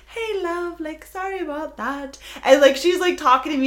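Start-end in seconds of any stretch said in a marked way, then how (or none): 0.1-2.2 sweet security lady. Retold or imitated. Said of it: "And she's like".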